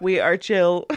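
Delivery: flat robotic monotone. Shown as a demonstration. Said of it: "like a robot".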